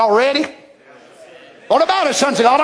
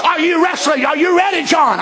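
Lord calling out; 6 semitones higher than usual. Retold or imitated. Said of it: "Lord calling Wesley".

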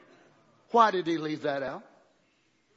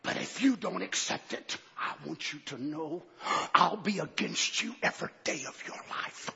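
low, hushed menace; devil's low threat; 3 semitones lower, 6 dB quieter than usual. Retold or imitated. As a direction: threaten him softly like the devil. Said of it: "he turns the threat on him".

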